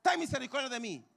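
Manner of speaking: loud high plea to Jesús; crying out. Retold or imitated. Blind man crying out to Jesús, loud high plea. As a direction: call out over the crowd, pleading. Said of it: "comenzó a vociferar".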